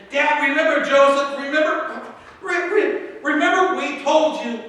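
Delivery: high, nervous stumbling re-, re-; a hint of nervous sons confessing to Dad; stammering brothers. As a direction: trip over the words like guilty sons.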